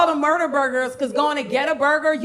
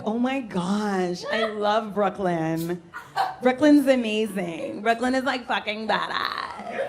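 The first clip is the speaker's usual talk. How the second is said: put-on LA girl gushing; 3 semitones lower than usual. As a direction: drawl it out like a starry-eyed LA girl. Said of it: "they're always like".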